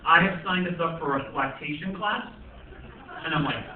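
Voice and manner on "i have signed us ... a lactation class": a hint of a lower, patient wife; lightly voiced wife. Wife explaining the lactation class, lightly voiced and patient. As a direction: talk him down gently. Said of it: "She's like".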